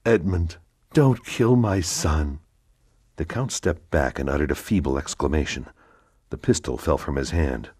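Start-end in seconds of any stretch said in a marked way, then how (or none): 0.1-2.4 higher, slow, despairing plea. Acted. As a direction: beg him slowly, full of despair. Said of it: "in a tone of despair".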